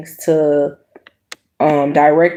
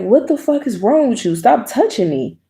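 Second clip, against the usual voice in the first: higher, exasperated snap; reenacting her anger at his touching; retold anger; 6 semitones higher than usual. Retelling pushing his hand off.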